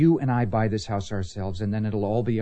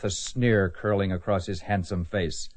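romance novel read-aloud; 3 semitones lower than usual. Acted. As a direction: narrate a melodramatic paperback.

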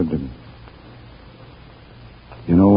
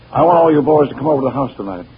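excited invitation; 8 semitones higher, 5 dB louder, faster than usual. Acted. Inviting the boys to celebrate.

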